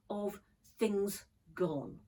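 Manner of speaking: hushed, breathy whisper on the last words. Real, not acted. Teacher on the poem's loss, whispering. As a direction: let the words fade to a whisper.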